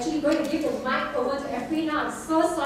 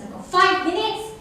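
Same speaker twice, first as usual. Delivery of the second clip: sudden higher, louder panic about time; alarmed realisation; 6 semitones higher, 5 dB louder than usual. Real, not acted. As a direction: caught off guard by the clock.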